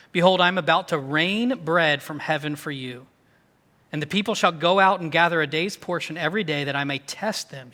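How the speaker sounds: even, measured Bible reading aloud; scripture reading. A narrator's reading. Pastor reads Exodus to the congregation, scripture reading. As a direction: read the verse out to a congregation.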